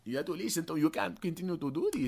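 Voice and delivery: high-pitched mock African lady; old African lady. Playing Jesus as African lady warning sinner, high-pitched. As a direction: imitate an African woman admonishing. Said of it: "some old African lady?".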